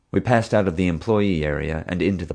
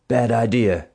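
snarling; 5 semitones higher, slower than usual. Acted. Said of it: "he snarled".

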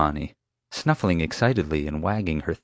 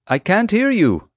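slow, high, loud call; feigning deafness; 14 semitones higher, 6 dB louder, slower than usual. Pretend. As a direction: shout as if over a din. Pretends not to hear chief.

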